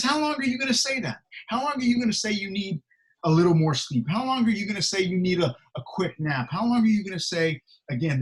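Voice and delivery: mock the excuses, pressing hard; mocking rebuke. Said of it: "He's actually mocking them".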